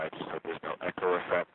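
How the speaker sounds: normal talking voice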